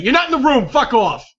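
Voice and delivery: high, loud telling-off; mock-angry yell. Player shoos someone out of the scene, mock-angry yell. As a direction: yell at an intruder to butt out.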